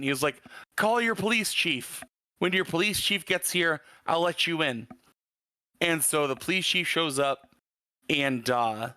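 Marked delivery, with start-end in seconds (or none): 0.8-4.9 put-on thick Arabic accent, pitched up; clerk's thick Arabic accent. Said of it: "in a very thick Arabic accent".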